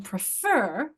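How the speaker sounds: slow prefer, weight on FER; stress on second syllable. Shown as a demonstration. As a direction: draw out the last syllable of prefer. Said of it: "how does my base word change".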